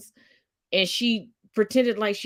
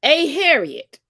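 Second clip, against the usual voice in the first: call for response; 3 semitones higher, 5 dB louder, slower than usual. Pretend. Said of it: "can we all say".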